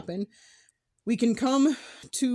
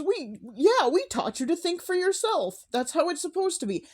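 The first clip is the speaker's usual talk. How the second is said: mocking the mother; 8 semitones higher than usual. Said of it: "all she said is".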